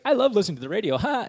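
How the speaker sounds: hammed-up crazy passenger; crazy girl. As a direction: play her a bit unhinged. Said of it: "And she's crazy".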